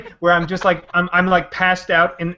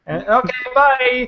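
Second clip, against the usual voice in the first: curt dismissal; 6 semitones higher, slower than usual. Retold or imitated. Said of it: "I'm like".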